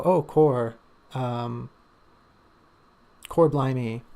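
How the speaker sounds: loud, hearty Cockney "core blimey"; a bumbling Cockney guard blurting out surprise; Cockney exclamation. Shown as a demonstration. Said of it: "or where they just go".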